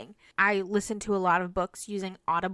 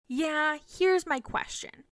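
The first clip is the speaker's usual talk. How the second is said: student reply; 6 semitones higher than usual. Retold or imitated.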